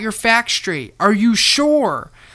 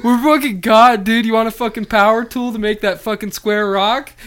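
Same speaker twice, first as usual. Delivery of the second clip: frat bro; 4 dB louder than usual. Pretend. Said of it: "be like".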